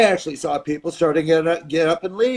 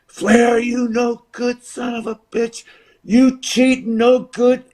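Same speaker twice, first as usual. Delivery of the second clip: crowd jeering; 8 semitones higher, slower than usual. Retold or imitated. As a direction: bellow it like a furious crowd. Crowd yelling at Flair.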